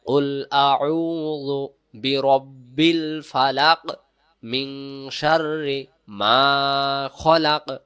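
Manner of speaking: slow, drawn-out chant; Quran recitation. Shown as a demonstration. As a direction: recite the verse slowly. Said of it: "প্রথম আয়াত".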